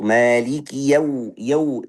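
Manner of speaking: "yau" with its a blurred into u; slow recital, "yau" rounded towards "yo"; wrong, incomplete fathah. Shown as a demonstration. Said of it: "itu salah".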